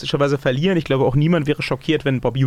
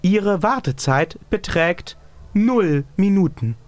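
automated hotline announcement; slower than usual. Pretend.

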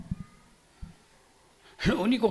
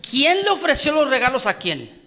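the question again, pushed harder and higher; louder repeat; 4 semitones higher, 4 dB louder than usual. Shown as a demonstration. Preacher repeating the question so the congregation answers loudly. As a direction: ask it again, demanding a strong answer. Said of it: "Otra vez le pregunto y dígamelo fuerte".

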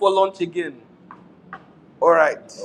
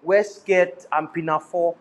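slow Nigerian-accented instruction; deliberate Nigerian accent. Shown as a demonstration. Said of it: "say this with a Nigerian accent".

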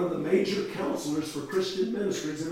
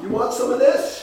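high, loud stoned offer; pitched-up mock stoner voice; stoned girl; 6 semitones higher, 7 dB louder than usual. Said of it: "stoned out of her mind, man".

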